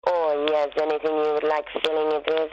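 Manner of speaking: put-on French accent. Partner in role as French lad, French accent. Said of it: "do you know French accent?".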